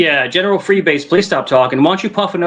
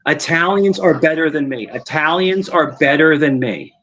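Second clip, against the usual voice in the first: slow, measured prompt to repeat; spoon-feed the line, slowly; dictating words; 4 semitones lower, 3 dB quieter, slower than usual. Shown as a demonstration. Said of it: "say these words".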